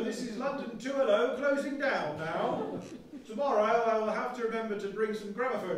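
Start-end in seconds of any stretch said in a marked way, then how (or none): 0.0-2.8 laughing sign-off. Acted. Laughing sign-off as old announcer.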